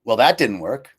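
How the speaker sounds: cheerful acceptance of a failure; new mantra. Retold or imitated. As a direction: toss it off lightly. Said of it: "That's my new mantra".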